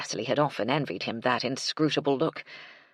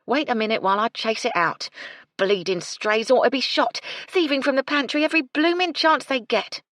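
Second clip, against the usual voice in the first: grumbling; 9 semitones higher, 5 dB louder than usual. A narrator's reading. Gertie grumbles about strays.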